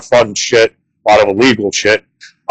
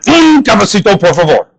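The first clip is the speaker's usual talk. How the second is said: Spanish attempt; 3 semitones higher than usual. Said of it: "but I wanted".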